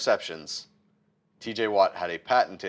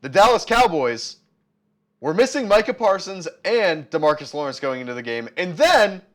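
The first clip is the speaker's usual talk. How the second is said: loud, higher, exasperated ranting; heated rant; 5 semitones higher, 5 dB louder than usual. Real, not acted. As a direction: vent it like a furious fan.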